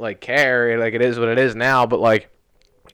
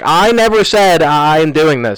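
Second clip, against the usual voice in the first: getting mean; 4 semitones higher, 5 dB louder, slower than usual. Retold or imitated. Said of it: "now I started to get mean".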